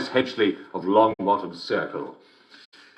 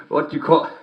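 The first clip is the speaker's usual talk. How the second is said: laughing through it. Acted. Host reading joke, laughing through.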